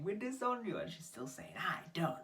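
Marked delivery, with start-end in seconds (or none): 0.0-0.8 high-pitched imitation of shouting parents; mock shouting. Storyteller mimicking parents disowning their daughter, high mock shout. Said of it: "And they're still shouting". 1.6-2.2 high, drawn-out mock defiant cry; defiant retort. Storyteller mimicking friend defying her parents, high defiant cry. Acted defiant yell in quarrel.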